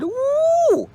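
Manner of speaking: put-on high, bright girlish voice; chirpy young girl. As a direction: brush it off cheerfully.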